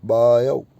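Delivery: बायो said slowly, ending in an au glide; full diphthong ending. Shown as a demonstration. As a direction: stretch बायो as baa-yau. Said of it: "ओ का बन जाएगा औ". (बायो के अंत में साफ़ औ)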